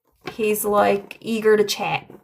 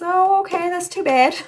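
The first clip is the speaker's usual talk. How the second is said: high mock disappointed dad voice, louder; voicing the dad; 10 semitones higher, 5 dB louder than usual. Medium voicing a father's reply, lightly disappointed. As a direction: play the dad sighing it's a shame. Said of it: "He says".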